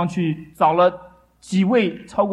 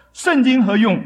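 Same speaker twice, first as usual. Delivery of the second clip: higher, mildly raised voice; a mock challenge, pitched up a little; retold loud scoff; 4 semitones higher, 4 dB louder than usual. Preacher quotes Voltaire defying scripture, a retold loud challenge. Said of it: "他大聲地說".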